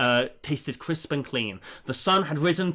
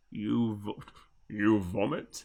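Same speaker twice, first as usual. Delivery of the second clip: low, threatening put-on voice; 6 semitones lower, 5 dB quieter than usual. Trying to voice a character's line: Bolas voice. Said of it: "I'm trying to do a Bolas voice".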